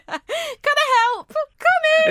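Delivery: high, slow shop assistant greeting; chirpy shopkeeper welcoming customers in. Retold or imitated. Shop door voice.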